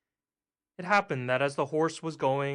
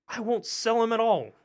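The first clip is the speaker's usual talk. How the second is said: firm refusal; 9 semitones higher, 6 dB louder than usual. A narrator's reading. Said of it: "father refusing the strangers".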